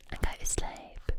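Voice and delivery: lulling Essex-accented ASMR whisper. Shown as a demonstration. ASMR host lulling the listener to sleep, whispered Essex accent. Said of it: "just imagine this accent".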